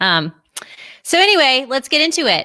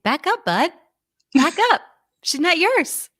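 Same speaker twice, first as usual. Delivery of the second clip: higher, playful warning voice, laughing once; mock jealous Matthew; 10 semitones higher than usual. Matthew telling Gallowglass to back off, mock jealous. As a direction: act a possessive vampire shooing off a rival.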